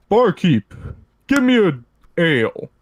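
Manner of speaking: loud, rude shout at the barkeep; rude yell. Retold or imitated. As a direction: bark the order across the tavern. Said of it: "someone that's being rude and just yells".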